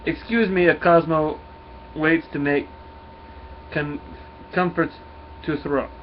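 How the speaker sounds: put-on halting Russian accent; measured Russian dog voice, word by word; Cosmo. Cosmo excuses himself to Nova, halting Russian accent. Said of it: "always wanna do a Russian accent".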